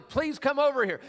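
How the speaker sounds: high, loud pleading call; acted yelling. Rider begging the ride operator to come, acted high yell. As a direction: yell for help across a fairground, played for laughs. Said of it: "And so I'm yelling".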